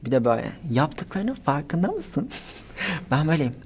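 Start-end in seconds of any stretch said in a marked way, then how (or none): 0.7-2.3 slow, lightly voiced reprimand; imitated scolding woman. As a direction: draw out a mock accusing question. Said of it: "kadın bana böyle yapıyor".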